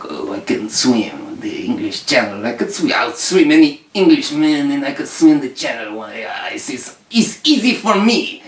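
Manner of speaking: put-on boastful French-accented cat, rising at the end; boasting French cat.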